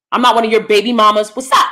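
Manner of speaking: sassy challenge. Retold or imitated. Confronting men in scolding.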